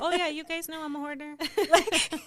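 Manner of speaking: fast, high, laughing confession. Real, not acted. Confessing to her sister and listeners she's a hoarder, laughing. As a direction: laugh it off as she admits being a hoarder.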